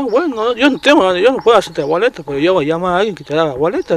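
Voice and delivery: retold heated answer to the cop; heated retort. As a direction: push back hard at the cop, fast at the end. Retold reply in heated argument.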